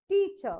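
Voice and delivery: TEAcher with a firm first syllable; stress on first syllable. Shown as a demonstration. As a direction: lean on TEA, keep -cher unstressed. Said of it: "first syllable should be stressed more".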